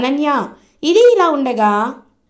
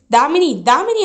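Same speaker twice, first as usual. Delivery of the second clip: raised voice calling her name twice; 4 semitones higher than usual. Retold or imitated. Darshan calls Damini over the DJ music, calling out. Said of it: "అని అరుస్తున్న".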